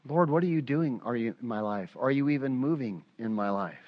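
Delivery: a weary plea, voice sinking; despairing whisper-soft prayer. Retold or imitated. Preacher voicing a doubting believer, softly pleading.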